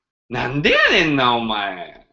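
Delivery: quick Osaka-dialect scolding; Osaka accent. Shown as a demonstration. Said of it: "and Osaka accent".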